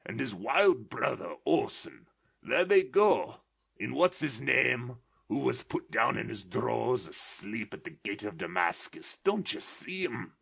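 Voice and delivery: put-on pointing at old heroes with childish glee; excited old man, almost laughing; between laughing and crying. A narrator's reading. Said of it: "extraordinary voice between laughing and crying".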